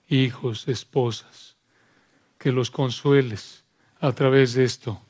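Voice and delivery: measured prayer with long pauses; subdued closing prayer, phrase by phrase. Real, not acted. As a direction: speak to God in unhurried, reverent phrases.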